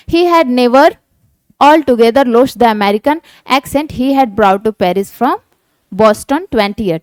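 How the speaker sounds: slow, deliberate read of the textbook passage; slow reading aloud. Shown as a demonstration. Teacher reading the story aloud slowly to students. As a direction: read each English phrase out slowly for the class.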